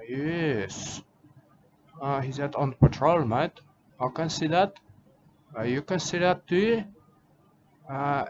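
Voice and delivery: hammed-up Australian accent with mate on every line; playing a rugged Australian conservationist, broad Australian accent; mock Australian bloke. Put-on Aussie character throughout.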